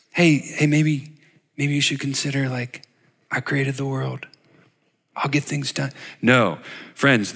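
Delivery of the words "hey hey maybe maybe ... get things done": soft, hesitant, half-hearted suggestion; mock passive request. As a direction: mumble it like a timid suggestion you don't quite mean. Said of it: "not just a passive request".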